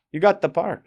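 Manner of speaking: high-pitched mock Russian manager; attempted Russian-accented announcement; bad Russian accent. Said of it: "trying to do her bad Russian accent".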